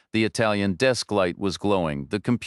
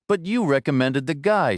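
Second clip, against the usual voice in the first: yelling; 6 semitones higher than usual. A narrator's reading. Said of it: "Stone yelled".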